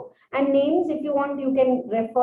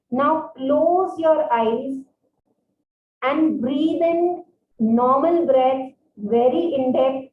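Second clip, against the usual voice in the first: slow, calm guiding voice; slower than usual. Acted. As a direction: guide them gently and slowly. Leads breathing exercise.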